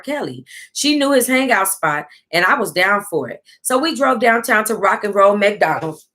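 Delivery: steady storytelling read of a memoir; reading a book aloud. Acted. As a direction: read the chapter out to the viewers. Reads a book aloud on stream.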